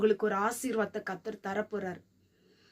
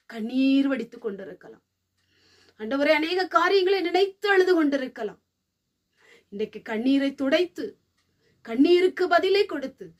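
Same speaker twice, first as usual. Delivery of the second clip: closing prayer. Real, not acted.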